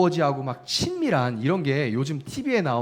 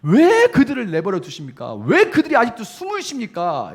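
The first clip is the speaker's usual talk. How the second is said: high, loud protest in prayer; crying out; 9 semitones higher, 7 dB louder than usual. Retold or imitated. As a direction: demand an answer from God at raised volume. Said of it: "막 이렇게 소리를 질러요".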